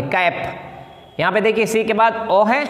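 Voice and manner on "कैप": कैप whispered very slowly; whispered model word. Shown as a demonstration. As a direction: breathe out कैप slowly with a hard k. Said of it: "काफ पढ़ेंगे". (कैप को धीमे से फुसफुसाकर बोलिए)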